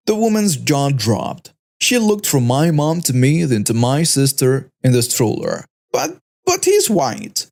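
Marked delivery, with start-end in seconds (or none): 5.9-7.5 high, slow stammering disbelief; sputtering. Acted. The accuser realising her mistake in front of the mother, high slow sputter. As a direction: stumble over the words, shocked. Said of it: "The woman started sputtering".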